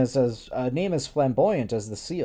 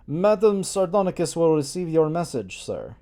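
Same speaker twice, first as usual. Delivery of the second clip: put-on Slavic accent; 3 semitones higher than usual. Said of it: "spoke in a thick accent".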